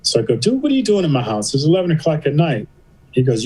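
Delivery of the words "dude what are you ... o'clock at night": high-pitched, mock-incredulous questioning; baffled challenge. Man asks friend at his door late at night, baffled.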